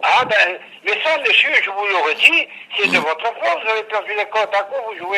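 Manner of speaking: irate customer scolding the company man; indignant outburst. Real, not acted. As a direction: push back hard, fed up with the caller. Customer furious at lost measurements.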